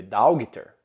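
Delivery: "dogter" read as DAU-gui-ter, with the g sounded; Portuguese-style misreading. Shown as a demonstration. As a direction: misread "dogter" by Portuguese spelling rules, hard g. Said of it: "Provavelmente você lê dogter".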